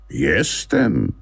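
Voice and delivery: a touch of proud dignity; puppy Pelson insisting he is a dog. Acted. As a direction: answer with lightly voiced pride. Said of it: "odpowiedział Pelson z godnością".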